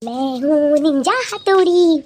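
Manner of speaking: slow, proud cartoon-hero intro; playing Ninja Hattori. Wife plays cartoon ninja. (हल्के से cartoon Ninja की तरह धीमा ऐलान)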